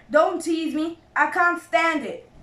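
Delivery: distressed cry. A narrator's reading. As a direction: beg him not to tease. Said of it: "cried Badger".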